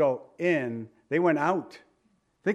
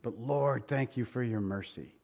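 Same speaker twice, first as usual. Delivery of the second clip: understated, penitent plea, settling quieter; humble prayer; 4 semitones lower, 3 dB quieter than usual. Acted. Sinner thanking the Lord for mercy, humble. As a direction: soften and lower into humble thanks. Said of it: "Humility, on the other hand, says".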